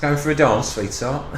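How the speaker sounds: a hammed-up southern charmer; posh southern accent. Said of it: "yeah, that's it".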